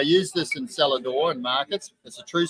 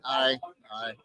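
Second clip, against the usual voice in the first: low Scottish grunt of assent; mock a snarling Scot, pitched down; 5 semitones lower, 4 dB quieter than usual. Sceptical Scotsman answers the distiller, in a low mock Scottish snarl. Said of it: "he's sort of snarling on the spot".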